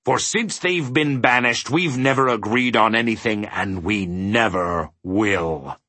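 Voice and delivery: indignant start, slowing and dropping to a weighty "will"; emphatic. A narrator's reading. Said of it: "He emphasized his last remark".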